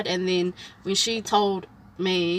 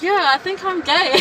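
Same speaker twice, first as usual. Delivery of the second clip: retold tearful confession; 8 semitones higher, 7 dB louder than usual. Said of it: "crying so bad".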